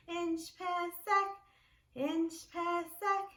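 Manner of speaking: Inch pesek slowly, rising on pesek; Armenian phrase. Shown as a demonstration. Teacher modeling Armenian question for class. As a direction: ask Inch pesek gently. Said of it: "Let's do Armenian".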